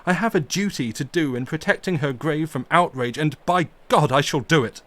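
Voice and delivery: loud passionate fury defending her grave; storm of passion. Acted. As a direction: rage and plead against the desecration. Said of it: "cried Arthur in a storm of passion".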